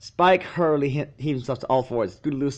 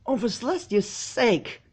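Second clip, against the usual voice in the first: yelled; 12 semitones higher than usual. A narrator's reading. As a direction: shout it, fed up with the nonsense. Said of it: "yelled Sweetie Belle".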